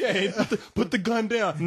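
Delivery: slow, soothing cop talking someone down; calm hostage negotiator. Pretend. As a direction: ease the gunman down, very slowly.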